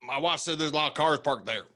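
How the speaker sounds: put-on Southern accent. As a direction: repeat it in a high twang. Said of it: "the accent that you did".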